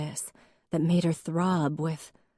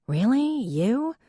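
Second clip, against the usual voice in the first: imitating a shrill, loud, much higher "Really? You?"; mock disbelief; 8 semitones higher, 4 dB louder, slower than usual. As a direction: parody the usual astonished reaction. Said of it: "This was usually when the response was".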